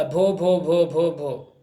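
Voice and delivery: repeats भो भो haltingly, trailing off; stuck on भो, stammering the name. Retold or imitated. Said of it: "She began to stammer". (अटकते हुए भो भो भो)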